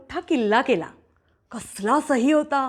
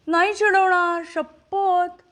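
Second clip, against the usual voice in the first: put-on pleading girl; 5 semitones higher, slower than usual.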